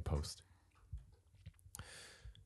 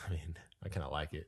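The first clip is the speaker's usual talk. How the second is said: husky half-whisper; whispered aside; 2 semitones lower, 5 dB quieter than usual. Real, not acted. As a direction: breathe it out privately. Half-joking about his sick voice.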